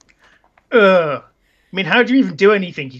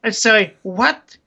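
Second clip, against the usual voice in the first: higher, put-on accent, mock affront; Isabella; 5 semitones higher, slower than usual. Girlfriend confronts boyfriend on the phone, put-on accent. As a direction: challenge him in a put-on female accent. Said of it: "this is the best accent ever".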